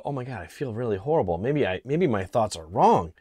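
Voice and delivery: lightly mocking emotional sway; hammed-up self-doubt, pitch swooping up and down; mock guilt-ridden. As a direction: play someone guilted into doubting themselves. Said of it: "trying to use emotion".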